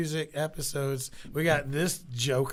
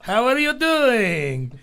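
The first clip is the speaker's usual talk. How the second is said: lucha libre announcer; 7 semitones higher, 5 dB louder than usual. Acted. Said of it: "like, a Mexican lucha libre announcer".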